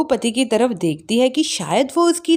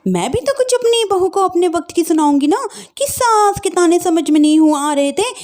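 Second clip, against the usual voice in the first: mocking retort; 3 semitones higher than usual. Daughter-in-law mockingly talks back.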